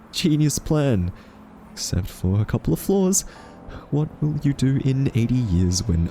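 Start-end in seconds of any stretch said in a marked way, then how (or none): 0.1-1.1 slow, higher-pitched mock admiration; dryly mocking, stretched-out compliment; sarcastic praise. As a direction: draw out the praise with heavy sarcasm. Mocking the AI's plan.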